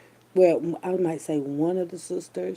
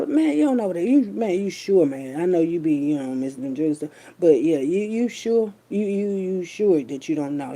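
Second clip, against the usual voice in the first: pressing question; 5 dB louder than usual. Retold or imitated. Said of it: "that's how I said it".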